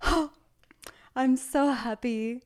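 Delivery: mimicking a thrilled worker about her boss; excited employee. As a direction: imitate a starstruck hotel worker. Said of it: "she's like".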